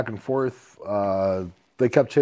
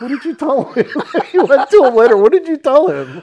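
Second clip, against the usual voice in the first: mock demanding; 12 semitones higher, 8 dB louder than usual. The speaker voiced demanding answers.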